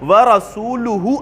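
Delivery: slow measured recitation of the verse; slow Quran recitation. Shown as a demonstration. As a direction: recite it slowly as in tilawah. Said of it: "تو پھر ترجمہ کیا ہے".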